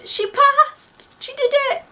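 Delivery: high, loud shout of news; triumphant announcement. Retold or imitated. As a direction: imitate a dad announcing it to the whole office. Dad announcing pass to colleagues.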